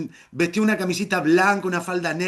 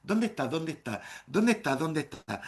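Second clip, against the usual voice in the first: softer alternating murmurs; hushed repeated searching question; searching whisper-murmur; 6 dB quieter than usual. Retold or imitated. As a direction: peek around asking quietly. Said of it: "como un suricata diciendo".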